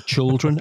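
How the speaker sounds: put-on "children" said as CHUL-dren; chul pronunciation. Shown as a demonstration. Showing how she supposedly says it, "children" as CHUL-dren. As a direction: make the first syllable of "children" sound like "chul". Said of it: "I'm pronouncing it C H U L".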